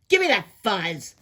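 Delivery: loud, quarrelsome grab for it; punchy, loud demand. Acted. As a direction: demand it loudly, like a squabbling critter. Quarrel over the fuzz.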